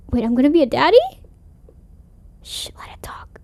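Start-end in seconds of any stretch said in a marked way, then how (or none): 2.4-3.4 a sharp breathy shh, barely voiced; hushed whisper. Cousin hushing Tabitha while the door speaks, whispered. Hushing during ghost's speech.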